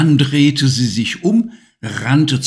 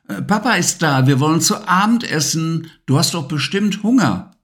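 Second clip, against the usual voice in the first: put-on higher, gentle mum's voice waking a child; tender mother; 6 semitones higher, faster than usual. Mama waking Levi at his shoulder, gentle higher mum voice. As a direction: coax him awake like a loving mum.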